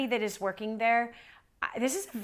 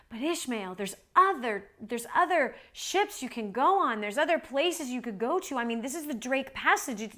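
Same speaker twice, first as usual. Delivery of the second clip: retold insistent, lively protest; urgent pleading; 3 semitones higher than usual. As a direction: plead with him that there are other options.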